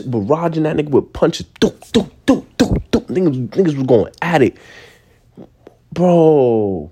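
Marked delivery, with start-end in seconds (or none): 1.6-3.1 punch sound effects. Retold or imitated. Imitating punches.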